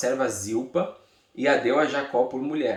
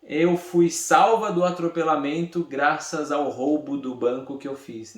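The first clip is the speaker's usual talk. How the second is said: louder, higher pretend testimony, easing at the end; mock grateful testimony; 4 semitones higher, 3 dB louder than usual. Teacher parodies Lia thanking God after a bank robbery, mock testimony. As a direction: play someone absurdly crediting a wrong deed. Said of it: "É mais ou menos ela dizendo assim".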